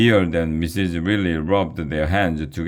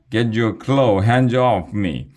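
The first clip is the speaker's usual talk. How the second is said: higher, louder angry order; shouted demand; 5 semitones higher, 4 dB louder than usual. Acted. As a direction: yell at the drone with more emotion. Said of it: "Much better".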